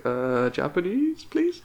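slow, hesitant, with please jumping way up; unsure mock request. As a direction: ask it like a baffled tourist. Timid reply to shopkeeper.

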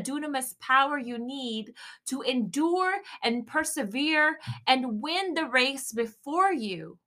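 rally the listeners not to quit; lightly preached, slowed encouragement; preaching encouragement. Acted.

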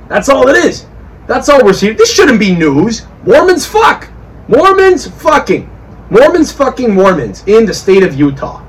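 rising, emphatic rant; worked-up rant. Real, not acted. Ranting about Mormons.

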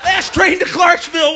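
mock shout. Shouting a band's song title at Manson.

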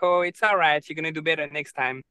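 a light touch of a soothing parent's voice; lightly reassuring parent. Retold or imitated. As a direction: gently comfort a child after a mistake. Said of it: "the parents are very much like".

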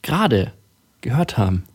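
radio host voice, pushed from the front of the mouth. Pretend. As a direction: announce it like an old radio presenter. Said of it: "Und das ist meine Radiostimme".

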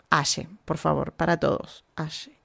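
Aye said with an sh sound, "A-she"; correct pronunciation. Shown as a demonstration. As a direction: say Aye slowly with Argentine sh. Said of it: "si no sabes pronunciar". (Aye pronunciado "ashe", a la argentina)

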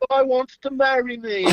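lightly voiced rock star; mock star reply. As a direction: play the star, half laughing.

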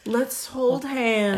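put-on echoed old lady. Echoing old lady, stretched.

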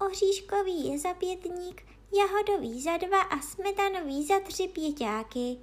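high-pitched princess reckoning; little princess. Acted. Princess prices the cakes, high little voice. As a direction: list it in a high girlish voice.

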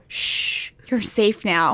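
a hushed shh, then a low soothing line; a parody of a movie hero's tender line; mock hero soothing. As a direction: play the hero comforting the rescued. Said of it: "the part where I go".

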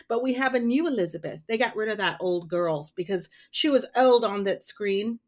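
put-on old-timey Hollywood accent; a 1930s newsreel accent. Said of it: "Was I doing a good old-timey accent".

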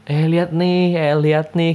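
mock a newbie bragging; pamer ala orang baru. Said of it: "kayak orang baru dapat sesuatu". (pamer sok bangga)

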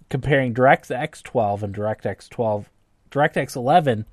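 tipsy, stumbling over the words. Real, not acted. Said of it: "I'm drunk, so I apologize".

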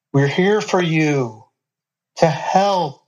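slow, airy ghostly voice; a spirit luring her gently. A narrator's reading. Airy voice speaks.

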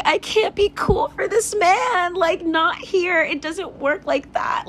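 inner voice. Retold or imitated. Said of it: "And I'm just like".

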